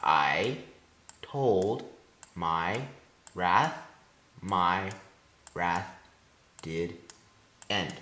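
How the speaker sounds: "I told my wrath my wrath did end" one word at a time, pausing after each; measured, low, separated words; syllable-by-syllable scansion. Shown as a demonstration. Student demonstrating iambs, syllable by syllable. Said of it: "this is unstressed stressed because it's an iamb".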